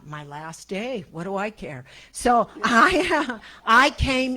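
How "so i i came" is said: laughing. Real, not acted. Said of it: "laughs at her own line".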